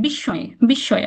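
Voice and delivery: বিস্ময় as "bish-shoy", slightly nasal, without m; doubled sh. Shown as a demonstration. Teacher recapping the rule, doubled sh in বিস্ময়. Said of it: "দ্বিত্ব উচ্চারণ করলাম".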